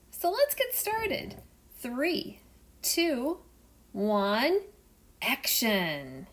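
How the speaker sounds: rally everyone, then count it in; encouraging explorer. Acted. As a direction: Jacques Cousteau starting the filming.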